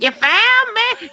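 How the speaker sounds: high, slow, puzzled voice of the woman in the bushes; high, slow, confused discovery; dazed stranger. Retold or imitated. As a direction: drag it out, high and bewildered. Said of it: "She's like".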